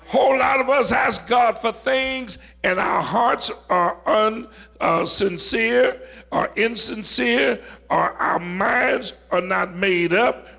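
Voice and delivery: fervent sermon delivery, pitch lifted; impassioned preaching. Acted. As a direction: drive the lesson home from the pulpit. Preaches application with force.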